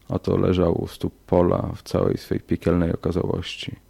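plain reading voice

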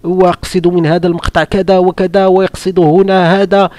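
proud son. Retold or imitated. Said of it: "وقال".

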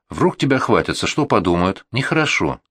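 plain reading voice

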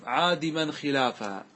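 slow, measured chant of the verse; slow classical verse recital; verse recitation. Shown as a demonstration. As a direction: recite the line of poetry slowly. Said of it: "قال الناظم".

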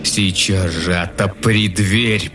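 slow threatening wolf growl. Acted. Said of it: "прорычал опять волк".

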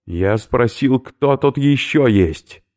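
loud, slow, stressing ещё; losing patience. Acted. Oberführer loses patience with silent stranger, loud demand. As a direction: demand an answer. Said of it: "начал терять терпение".

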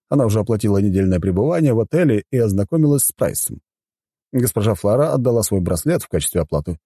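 high-pitched formal butler explaining house rules; courteous butler. Acted. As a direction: present the hotel as its dutiful butler. Voices the butler. (учтивый дворецкий)

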